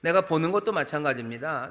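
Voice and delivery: ordinary talk, nothing marked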